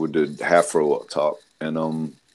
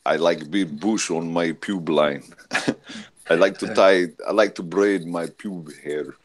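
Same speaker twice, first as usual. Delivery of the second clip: mock Russian accent. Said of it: "Yeah, Russian".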